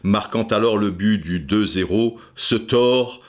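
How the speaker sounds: lyrical commentary, carried by the music; measured voice-over; documentary narration over music. Acted. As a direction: tell football history like an epic. Dramatic football documentary narration.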